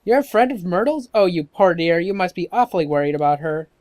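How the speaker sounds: put-on sympathetic old neighbour lady, lively pitch swings; gossipy old woman. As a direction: fuss over the poor child.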